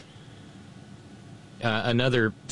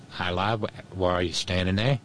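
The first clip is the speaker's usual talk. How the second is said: mock British cop accent; 3 semitones lower than usual. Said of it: "That, that sounds Australian".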